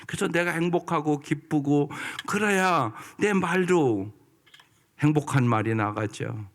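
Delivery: ordinary talk, nothing marked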